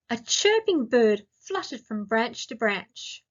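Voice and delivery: slow reading. Shown as a demonstration. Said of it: "I'll read each sentence slowly".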